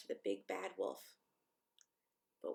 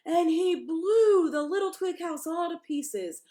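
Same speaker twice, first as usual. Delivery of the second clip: rising, ever louder telling; building narration; 7 semitones higher, 9 dB louder than usual. A narrator's reading. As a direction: build up to the blow. Narrating the wolf blowing.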